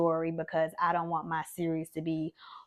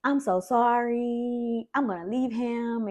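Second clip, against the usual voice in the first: mock crying mom; 5 semitones higher than usual. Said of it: "my mom just starts crying".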